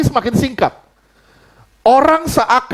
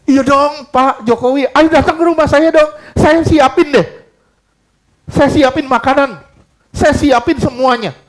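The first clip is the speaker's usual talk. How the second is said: eager welcome; 2 semitones higher than usual. Shown as a demonstration. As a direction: beg the president to come, overjoyed. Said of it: "Tapi kalau dia bilang". (menyambut dengan antusias)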